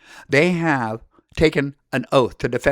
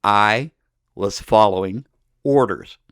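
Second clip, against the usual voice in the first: quoted soldier's excuse; 7 semitones lower, slower than usual. Retold or imitated. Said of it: "have you say these words".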